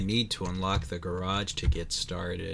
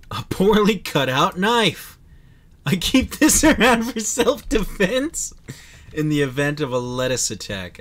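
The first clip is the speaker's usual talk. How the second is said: mock character voice; 7 semitones higher, 8 dB louder than usual. Reads item text in voice.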